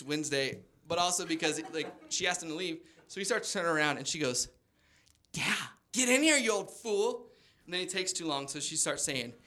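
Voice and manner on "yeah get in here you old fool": flirty grandma. Retold or imitated. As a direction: coax him in like a coy old lady. Grandma beckoning Jim.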